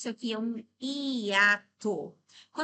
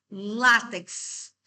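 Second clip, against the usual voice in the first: syllable by syllable; 6 dB louder than usual. Shown as a demonstration. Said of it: "separating syllables".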